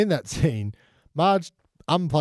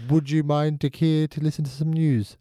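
put-on English accent; 4 semitones higher than usual. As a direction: announce it like an English town crier. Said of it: "I went English halfway through that sentence".

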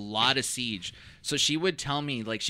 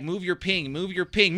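insistent request; 3 semitones higher than usual. Retold or imitated. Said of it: "when the guy was like".

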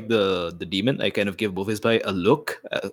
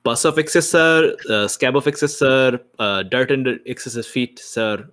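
awkward repeating; 3 semitones higher than usual. Acted. Player awkwardly echoing the demon's titles back to it. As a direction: repeat the odd titles, baffled.

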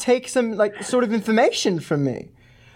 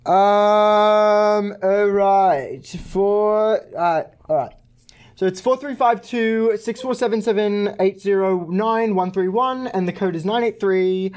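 put-on British accent; slower than usual. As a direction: speak in a posh-free British accent. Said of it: "Why are you British?".

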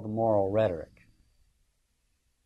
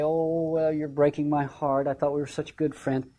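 mock whine; 2 semitones higher than usual. Cassius backing down to his friend, lightly whining. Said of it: "he begins to whine and say".

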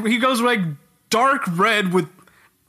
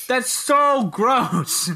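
disgusted; 5 semitones higher, much slower than usual. Real, not acted. Disgusted reaction.

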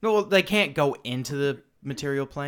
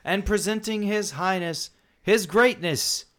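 loud, slow, high pompous herald; pompous fussy courtier; 8 semitones higher, 10 dB louder, slower than usual. Acted. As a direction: proclaim the title with swelling grandeur. Herald presents the god.

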